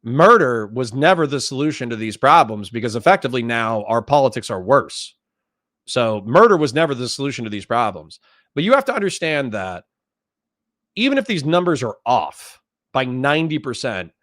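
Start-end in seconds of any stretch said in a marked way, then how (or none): 0.0-8.2 earnest, pitch settled back down. Real, not acted. Conceding a point to critics, earnestly. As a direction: state it sincerely, dropping the mockery. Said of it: "I can say, h-, earnestly".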